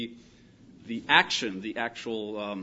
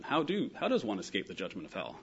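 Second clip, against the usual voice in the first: softer, musing inquiry; question for information; 2 semitones lower, 5 dB quieter than usual. Acted. Someone reading the verse out of context, mild inquiring question. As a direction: ask it mildly, as an interesting question. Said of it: "it's a question for information".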